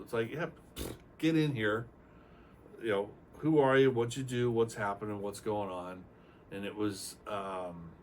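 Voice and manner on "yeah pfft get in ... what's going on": breezy welcome. Retold or imitated. Clinic staff casually welcomes Mike on the phone, loud and breezy. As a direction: wave him right in.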